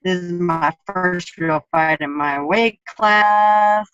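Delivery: slow, heartbroken, half-crying retelling; retold crying. Fighter recalling her crying over the lost fight, slow and sad. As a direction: let the heartbreak drag the words out slowly. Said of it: "started, like, crying".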